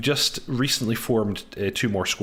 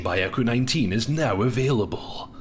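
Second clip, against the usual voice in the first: trailer voice. Pretend. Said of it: "I'm trying to do my trailer voice".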